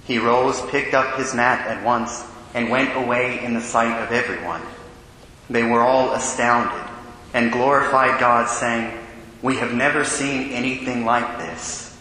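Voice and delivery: solemn liturgical proclamation; Gospel reading. Acted. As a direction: read it like a deacon at the ambo.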